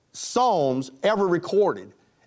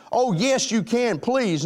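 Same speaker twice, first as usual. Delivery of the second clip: higher-pitched mock begging; pleading insistence; 7 semitones higher, slower than usual. Young man coaxes his reluctant date, mock pleading. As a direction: coax eagerly, playing the suitor.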